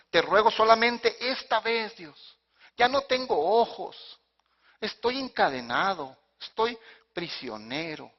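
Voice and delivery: slow, drawn-out plea, rising high then sinking; pleading. Acted. Samson begs God for one chance, slow pleading. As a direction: beg with long, heavy words.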